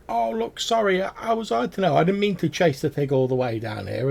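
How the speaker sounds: high, squeaky apologetic goblin; sheepish goblin. Acted. Goblin caught out by guards, high and apologetic. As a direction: stammer an excuse in a high little voice. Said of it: "this goblin's like".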